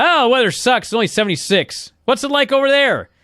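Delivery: a lightly voiced Crush, carefree; mock Crush voice. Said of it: "And he says".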